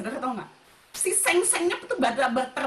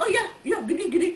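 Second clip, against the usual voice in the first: loud, high, eager agreement; lively, raised-pitch chatter; big and expressive; 6 semitones higher, 5 dB louder, faster than usual. Shown as a demonstration. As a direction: demonstrate an animated talker. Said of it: "Ekspresif kalau gede mah".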